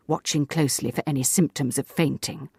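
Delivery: ordinary delivery, nothing marked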